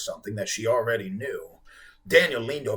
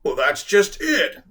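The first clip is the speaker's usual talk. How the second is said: slow whimpering whale; 6 semitones higher, 6 dB louder, slower than usual. A narrator's reading. Whale answering the boy, slow whimper. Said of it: "the whale whimpered".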